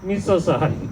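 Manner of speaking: lightly put-on Asian accent; mock Asian accent. Comic returning to his apology after the Indian slip, mock Asian accent. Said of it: "I love the Asian accent".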